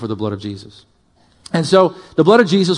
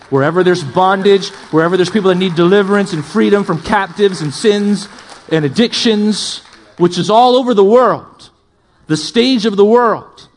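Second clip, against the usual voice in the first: raised, rising sweep of a preacher; impassioned preaching; 4 semitones higher, 4 dB louder than usual. Real, not acted. Preacher sending the church out into the world, impassioned.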